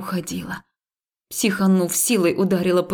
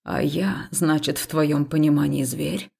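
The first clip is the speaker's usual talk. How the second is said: gruff; 4 semitones lower than usual. Acted. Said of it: "грубовато спросил он".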